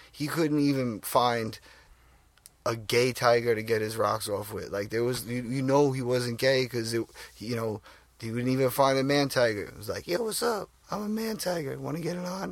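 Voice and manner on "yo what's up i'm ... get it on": voice breaking and cracking, pitched up. Acting out what a male tiger would say, voice cracking. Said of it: "my voice kinda cracked there".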